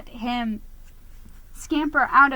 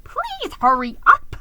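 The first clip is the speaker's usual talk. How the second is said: higher, louder hurried plea; impatient yell; 6 semitones higher, 8 dB louder than usual. A narrator's reading. Geronimo hurrying the fish before the guests, loudly. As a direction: urge him on, exasperated. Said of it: "I yelled".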